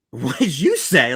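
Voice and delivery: slow, disbelieving 'What did you say?', leaning on 'you'; incredulous. Retold or imitated. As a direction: stretch out 'What did you say?' like he's lost his mind. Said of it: "I looked at him like".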